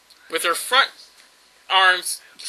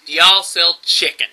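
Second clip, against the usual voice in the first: deadpan customer's question; dead serious; 3 semitones lower, 3 dB louder than usual. Retold or imitated. Customer asking cookie store worker, dead serious. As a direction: ask it in all earnest, no hint of a joke. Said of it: "asks him dead serious".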